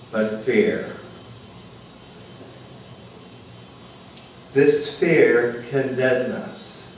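measured meditation leader with long pauses; unhurried, spacious guided-meditation delivery. Real, not acted. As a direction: guide listeners gently inward, pausing between phrases.

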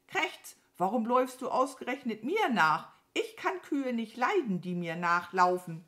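hohes, lautes Krähengezeter; genervte Krähe. Acted. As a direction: mit krächzendem Auftakt losschimpfen. Krähe schimpft. (zeternde Krähe, hoch und laut)

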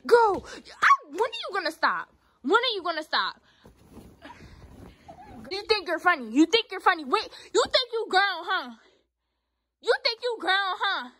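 high, loud challenge; shouted telling-off; angry scolding. Real, not acted. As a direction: challenge her at the top of your voice. Scolding sister.

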